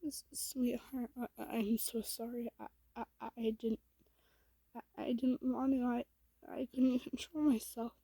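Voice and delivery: mild stammering panic; panicked. Acted. Goob apologizing to sweetheart after attacking, panicked. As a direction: stumble over the first words in an anxious apology. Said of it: "clearly panicked".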